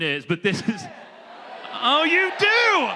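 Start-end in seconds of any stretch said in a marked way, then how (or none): 1.7-2.9 much higher, slow delighted surprise; surprised. Real, not acted. Speaker reacting to audience knowing the picture, surprised. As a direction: caught off guard, pleased.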